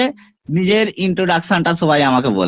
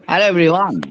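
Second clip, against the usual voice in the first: presentation opening; 2 semitones lower, much slower than usual. Shown as a demonstration. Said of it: "আমি presentation দিয়ে দিচ্ছি".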